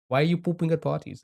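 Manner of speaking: put-on quick, half-hearted German accent; bad German accent. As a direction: fumble a YouTuber's German accent. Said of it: "That's a terrible accent".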